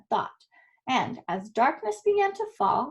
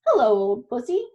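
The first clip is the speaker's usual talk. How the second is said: braying donkey; 4 dB louder than usual. Acted. Donkey calls a greeting to the old cat, braying. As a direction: bray it out like a friendly donkey.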